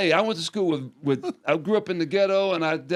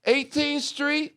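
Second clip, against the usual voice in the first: high, very slow punchline word; slow dramatic punch; 10 semitones higher, much slower than usual. Real, not acted. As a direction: drag it out for effect. Dramatic gang list.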